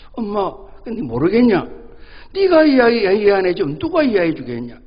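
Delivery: a boy mimicking his mother, high and loud; mocking echo. Son echoes his mother's words.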